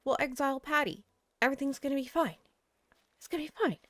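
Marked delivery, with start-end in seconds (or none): 1.4-2.4 contained self-soothing, only slightly raised; self-reassurance. Real, not acted. Player plans to exile Patty, composed self-reassurance. 3.2-3.8 higher, softer insistence; strained self-reassurance. Real, not acted. Player convincing self about island, strained reassurance.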